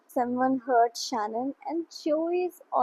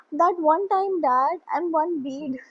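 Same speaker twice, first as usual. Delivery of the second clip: put-on higher, louder retort of a kid; lightly voiced protesting son; 5 semitones higher, 5 dB louder than usual. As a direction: mimic a boy answering Dad back. Child retorting to his dad.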